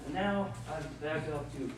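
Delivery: a mischievous sprite pleased with his own trick; Puck the sprite. Acted. Puck voiced by the same reader.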